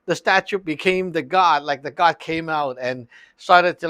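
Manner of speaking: ordinary delivery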